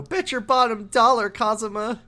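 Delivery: mock cheerful singsong. Mock Annie song to Kazuma.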